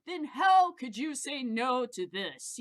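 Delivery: loud, slow salesman's clincher; triumphant closing pitch. Retold or imitated. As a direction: slam the deal shut, slow and loud.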